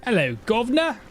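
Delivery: plain English chap greeting; male Cockney. Pretend. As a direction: male UK accent. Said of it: "that's a male voice again".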